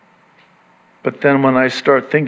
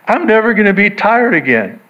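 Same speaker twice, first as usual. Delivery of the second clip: raised, eager declaration; excited hope; 5 semitones higher than usual. Acted. Preacher rejoicing to congregation, eager raised voice. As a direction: say it like a promise you can't wait for.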